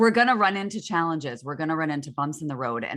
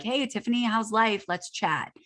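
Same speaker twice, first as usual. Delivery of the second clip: friendly greeting; 6 semitones higher than usual. Retold or imitated. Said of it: "this is a great opportunity to be like".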